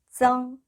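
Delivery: "정" held on one high, level pitch; 중국어식 발음 시범. Shown as a demonstration. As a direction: say "정" as a high, even teaching syllable. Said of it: "정이라고 읽습니다". ("정"을 높고 평평하게 끄는 발음 시범)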